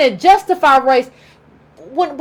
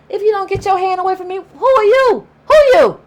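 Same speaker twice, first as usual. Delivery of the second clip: indignant retort; 4 semitones higher than usual. Retold or imitated. Confronting someone demanding closeness.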